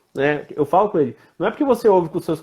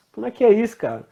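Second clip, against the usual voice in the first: surprised dad; 7 semitones higher, faster than usual. Retold or imitated. Dad questions son's swear.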